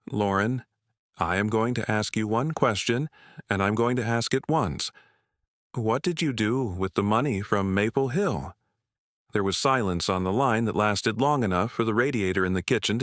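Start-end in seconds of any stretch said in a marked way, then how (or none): 0.1-8.5 calm, measured and unhurried. Acted. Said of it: "Then she said very calmly".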